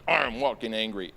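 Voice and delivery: mildly growled mock anger; put-on grumpy voice; mock angry strut. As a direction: imitate an angry man stomping along. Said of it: "he's walking angry".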